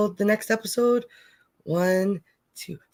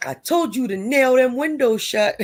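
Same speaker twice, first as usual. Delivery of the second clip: higher, put-on telling-off; raised-pitch playful scold; mock scolding; 5 semitones higher, 4 dB louder than usual. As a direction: act out an I-warned-you rebuke. Acting out scolding quote from show.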